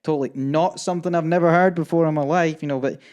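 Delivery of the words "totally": submissive agreement. Retold or imitated. Traveller placating border officer, mock-submissive. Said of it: "never been so submissive".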